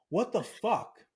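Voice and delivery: high, mock-irate exclamation; imitating an angry brother. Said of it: "he was pissed, irate".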